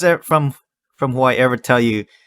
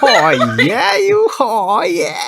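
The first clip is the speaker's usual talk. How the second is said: much higher whooping cheer; celebratory shout; 9 semitones higher, much slower than usual. Retold or imitated. Echoing the Hawaiian cheer, much higher and shouted. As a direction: holler it like praise across a room.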